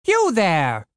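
high, ringing call out; shouting. Acted. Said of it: "Jorn shouted".

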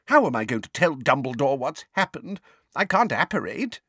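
high-pitched, distraught lament; tragic fretting. A narrator's reading. Neighbour dreading telling Dumbledore the news, tragically distraught. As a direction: fret tragically, stretching the anguished questions. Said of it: "tragically wringing her hands once more".

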